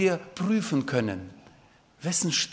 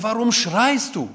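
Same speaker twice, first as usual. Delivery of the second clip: parents calling up; 6 semitones higher, 6 dB louder than usual. Retold or imitated. Parent asking the shouting son.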